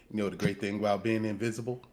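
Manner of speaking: low, hushed voice; whispering. Pretend. Invisible player whispering to his companion, hushed. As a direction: drop right down as if whispering secretly. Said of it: "I'm gonna whisper to you".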